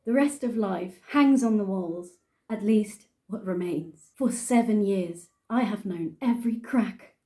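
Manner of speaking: put-on slightly formal English-accented recital; poem read in a put-on English accent. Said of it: "I'm gonna do it in an English accent".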